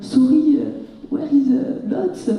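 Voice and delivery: put-on halting English with a French accent. Lost arrival asking locals for the bus, French-accented English. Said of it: "avec mon super accent".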